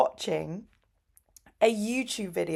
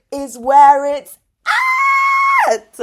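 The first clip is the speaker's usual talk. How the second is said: louder, higher, slow declaration; excited shout; 14 dB louder, slower than usual. Real, not acted. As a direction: proclaim it with fervour. Excited rant about nerds.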